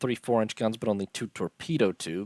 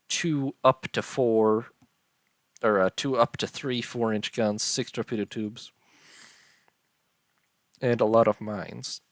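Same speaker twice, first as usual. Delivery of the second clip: talking through a yawn. Real, not acted. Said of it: "I don't know why I'm yawning so much here".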